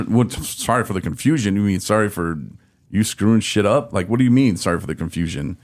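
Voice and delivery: incredulous echo of an apology; indignant retort. Retold or imitated. Retelling outrage at the organization's excuse, indignant. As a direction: throw the apology back at them.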